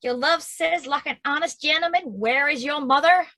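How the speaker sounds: quick mocking echo; mimicking the nurse. Juliet mocking the nurse, a fast echo. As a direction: rattle her words back fast. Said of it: "How oddly thou repliest".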